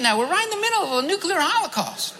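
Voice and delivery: a preacher laughing while retelling his dream. Real, not acted. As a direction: laugh at how absurd it is. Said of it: "laughs at the absurdity".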